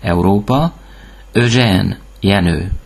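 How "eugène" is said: Eugène starting on a rounded ö; French Eugène, rounded first vowel. Shown as a demonstration. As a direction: say Eugène as "ö-zhen". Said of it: "általában Ö-nek ejtjük".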